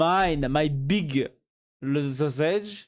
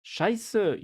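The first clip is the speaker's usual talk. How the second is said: German swear; 6 semitones higher than usual. Shown as a demonstration. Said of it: "In German".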